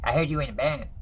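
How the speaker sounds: a hint of a high-pitched little man; high-pitched little guy. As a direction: squeak it out like a small guy, lightly. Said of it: "He used to be really high-pitched".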